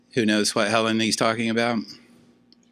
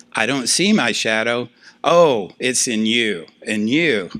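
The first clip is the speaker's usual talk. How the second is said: exaggerated finger-pointing realization, louder on the "Oh"; mock accusing; 2 semitones higher, 4 dB louder than usual. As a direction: play someone lightly blaming everybody else. Acting out someone projecting their shadow.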